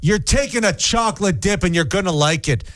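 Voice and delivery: high, hammed-up Canadian chatbot; pushy drive-through order-taker in broad Canadian; Canadian accent. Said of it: "what the Canadian A I chatbot would sound like".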